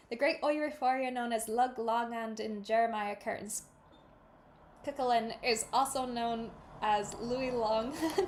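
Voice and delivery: amateur Irish read-aloud of tricky names; attempted Irish accent. Shown as a demonstration. Reader tackling legendary names, wobbly Irish accent. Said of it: "read that page in my best Irish attempt".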